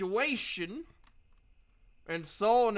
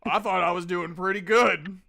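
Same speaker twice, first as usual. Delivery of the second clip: louder, wounded protest; offended protest; 6 dB louder than usual. Acted. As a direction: sound hurt by the remark. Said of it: "he looks at his body".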